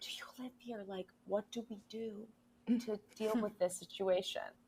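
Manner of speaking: barely audible, hushed, very quiet half-whisper. Retelling how she asks locals questions to get information: half-whispering. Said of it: "I whisper because I'm trying to get information".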